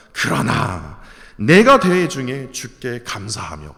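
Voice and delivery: slow, weighty scripture quote; solemn, grateful psalm line; slow thankful reading. Acted. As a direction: savour each word of thanks. Quoting the psalm's turn.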